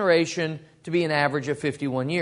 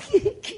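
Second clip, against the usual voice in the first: put-on boy's prank laugh. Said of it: "he'd laugh".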